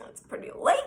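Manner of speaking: hushed whisper; whispered aside. Retold or imitated. Woman reacting to a midnight knock at his door, whispering. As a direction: whisper it warily, barely any voice.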